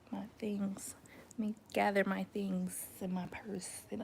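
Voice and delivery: a retold unvoiced whisper, sneaking off. Excusing herself from the date, mock whisper. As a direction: whisper it as if slipping away from the date.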